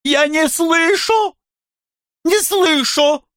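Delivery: very high, loud squealed refusal; exclaiming. Acted. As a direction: cover your ears and squeal it. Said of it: "воскликнула она".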